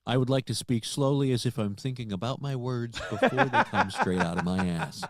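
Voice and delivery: laughing impression. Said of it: "white person impression".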